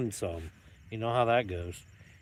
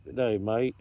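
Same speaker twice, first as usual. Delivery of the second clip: put-on Australian accent. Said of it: "Crocodile Dundee".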